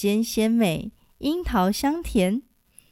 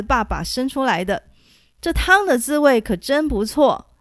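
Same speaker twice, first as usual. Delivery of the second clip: delighted praise; 3 dB louder than usual. Acted. Delighted old beggar praising.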